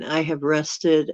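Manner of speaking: slow, mid-yawn words. Real, not acted. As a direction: talk through a yawn. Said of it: "I don't know why I'm yawning".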